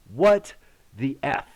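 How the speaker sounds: retold stunned reaction; stunned disbelief. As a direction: gasp it out in shock. Stunned after the blast.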